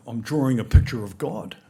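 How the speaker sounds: put-on a small child's loud, proud announcement; proud little girl. Little girl tells her teacher what she's drawing, loud and proud. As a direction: say it like a five-year-old sure of herself.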